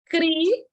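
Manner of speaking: "Cri-an-sa" said as three separate beats; split into syllables. Shown as a demonstration. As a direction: chop "Cri-an-sa" into its syllables, each a small step up. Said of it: "criança".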